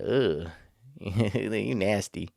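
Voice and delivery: slow, drawn-out disgusted put-down; disgusted drawl. Retold or imitated. To his cousin who still does it, slow disgusted drawl. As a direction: stretch it out like you smell something bad.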